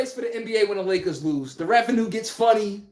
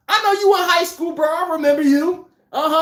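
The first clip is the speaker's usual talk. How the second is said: hyped recognition; 7 semitones higher than usual. Acted. Hyping an old high school player.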